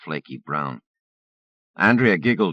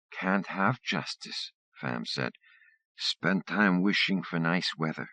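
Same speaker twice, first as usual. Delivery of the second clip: Fam's voice. Acted. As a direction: give the sayings calmly and slowly. Fam shares sayings slowly.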